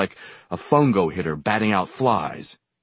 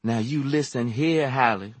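drawling; 6 semitones higher than usual. A narrator's reading. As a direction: take your time, she won't be hurried. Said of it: "she drawled".

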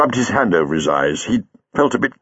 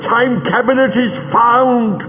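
dry rasping voice. Acted. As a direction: force each word out through a rasp. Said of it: "Greel spoke in a dry, rasping voice".

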